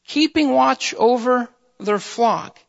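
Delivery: slow, weighted "Keeping watch over their flock"; emphatic phrasing. Shown as a demonstration. Preacher repeats a verse to the congregation, emphatic. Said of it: "I really want to emphasize those words".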